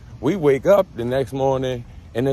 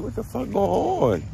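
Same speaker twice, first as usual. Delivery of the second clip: startled freak-out; 11 semitones higher than usual. Retold or imitated. Panicking about itching in story.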